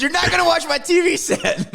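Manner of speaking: high, strained mock yell; imitating movie line. Quoting the cop yelling about the TV. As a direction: yell it like the enraged character. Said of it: "he goes".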